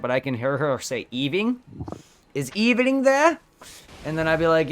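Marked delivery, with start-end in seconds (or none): 1.1-3.4 put-on high, slow Hispanic accent calling; mom's heavy Hispanic accent asking; thick Hispanic accent. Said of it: "she has very thick Hispanic accent".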